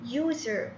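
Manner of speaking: USER modelled with a clear "yoo" onset; teacher sounding out "user" for the ear; pronunciation demo. Shown as a demonstration. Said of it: "أسمع نطق ال-، الحرف".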